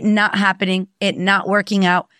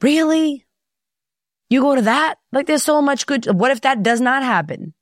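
incredulous coach; 6 semitones higher than usual. Retold or imitated. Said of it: "And I'm like".

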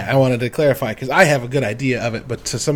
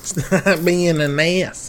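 mocking echo; 3 semitones higher, much slower than usual. Mocking repeat of friend's line.

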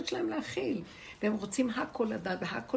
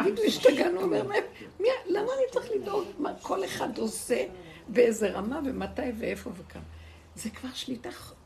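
high, louder outraged rant, half laughing; laughing mock rant; 4 semitones higher, 4 dB louder than usual. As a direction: play the manager losing it, grinning. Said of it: "קם בעצמו וצעק". (התפרצות מחוקה גבוהה וחזקה עם צחוק)

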